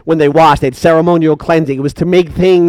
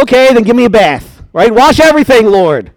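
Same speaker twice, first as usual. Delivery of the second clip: higher, overeager plea; eager Peter; 4 semitones higher than usual. Acted. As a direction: gush like impulsive Peter.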